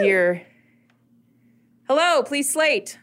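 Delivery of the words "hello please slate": casting director voice. Acted. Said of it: "from the darkness of the audience".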